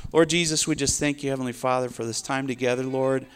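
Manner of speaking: earnest praying voice; preacher leading a heartfelt closing prayer. Real, not acted. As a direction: pray over the listeners.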